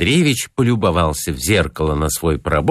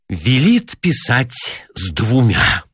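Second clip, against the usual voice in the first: martyred sigh; 4 semitones higher, slower than usual. A narrator's reading. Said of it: "жертвенно вздохнула девушка".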